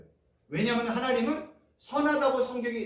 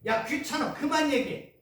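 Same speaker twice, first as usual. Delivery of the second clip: higher, irritated brush-off; annoyed parent; 5 semitones higher than usual. Retold or imitated. A parent brushing off the calling child, irritated. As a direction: wave the child away, annoyed. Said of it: "이렇게 얘기하잖아요".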